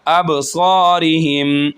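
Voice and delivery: अबसारिहिम with a bounce on बा; qalqala. Shown as a demonstration. Teacher demonstrating qalqala on बा. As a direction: echo the बा with a small bounce. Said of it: "बा पर कलकला होगा".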